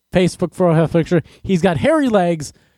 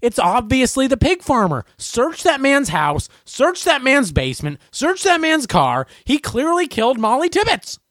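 mock outraged public; 5 semitones higher than usual. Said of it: "looking at the media going".

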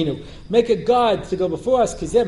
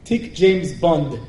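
slow mock Israeli accent; deadpan demo of an Israeli Hebrew accent; 3 semitones lower, slower than usual. Shown as a demonstration. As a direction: announce it slowly as an Israeli would. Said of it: "you say that in Hebrew".

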